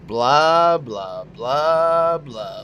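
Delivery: slow dismissive blah blah; mocking blah blah. Real, not acted. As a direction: drag out each blah with contempt. Defendant mocks the courtroom speech.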